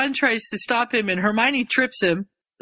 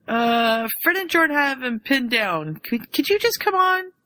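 flustered Hermione; 6 semitones higher than usual. Retold or imitated.

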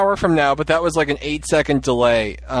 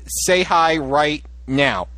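slow and deliberate; much slower than usual. Shown as a demonstration. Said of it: "Let's gauge the reaction".

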